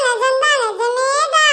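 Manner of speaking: slow, choked with happy tears; mock tearful. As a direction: draw it out as if near crying. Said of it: "இது கனவா இல்ல நிஜமாடா". (ஆனந்தக் கண்ணீருடன் மெதுவாக)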